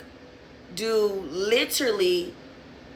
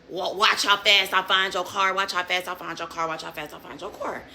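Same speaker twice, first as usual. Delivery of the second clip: mock boasting; 3 semitones lower, 3 dB quieter than usual. Mimicking officer's repeated boast.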